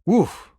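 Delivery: high, falling oof; quick oof of reaction; exclaimed oof. Acted. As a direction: let out a short, high woof. Second take of the reaction.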